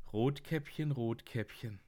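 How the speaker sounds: Jäger, Pointe mit Lachen; lachend. Retold or imitated.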